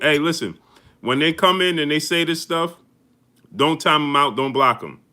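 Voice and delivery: rally the moderators with energy; pumped-up order to the mods; hyped call to mods. Real, not acted.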